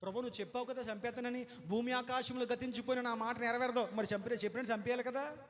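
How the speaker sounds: mock indignant protest, rushed; Jonah protesting to God. Jonah protesting to God that the city survived, mildly mocking. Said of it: "ఏంటి ఆ కోణం అంటే".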